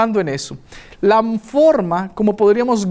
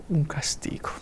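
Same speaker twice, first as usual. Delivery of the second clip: soft, breathy close; whispered; 5 semitones lower, 10 dB quieter than usual. Real, not acted. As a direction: whisper the word. Quiet dramatic ending of story.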